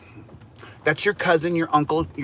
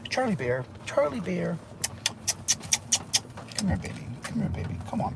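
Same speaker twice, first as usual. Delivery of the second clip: soft, higher cooing pet voice, nearly whispered; 5 semitones higher, 9 dB quieter than usual. Real, not acted. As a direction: coo to a puppy you adore. Cooing to his dog on stream.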